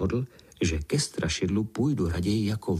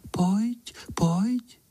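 whispered call; 12 semitones higher than usual. A narrator's reading. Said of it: "a hlásek šeptá".

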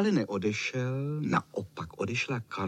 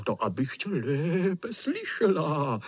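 slightly higher, slower sly grandma voice; a hint of a wolf winking behind granny; wolf in disguise answering the girl; wolf playing grandma; 6 semitones higher, slower than usual. A narrator's reading. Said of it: "zamrkal na ní vlk".

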